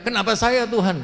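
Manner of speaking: high, loud mock cry to God; retold shout. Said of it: "saya teriak".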